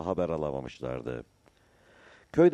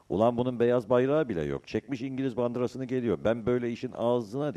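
high-pitched, indignant outburst; angry shouting; 7 semitones higher, 4 dB louder than usual. A narrator's reading. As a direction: curse at the approaching ship with raised voice. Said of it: "diye bağırmak istedi". (öfkeyle bağırır gibi)

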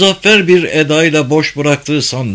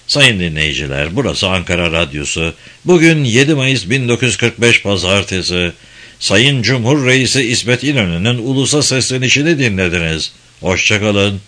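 put-on old radio announcer. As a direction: announce it like a 1940s radio host. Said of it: "tok bir erkek sesi".

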